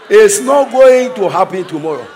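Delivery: going stretched and loud. Shown as a demonstration. Preacher shouting it won't be tomorrow. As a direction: proclaim it loudly. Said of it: "repeated louder".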